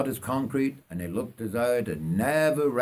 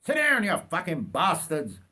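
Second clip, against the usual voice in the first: yell; 6 semitones higher than usual. Acted. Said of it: "yelled Bert Booth at the two".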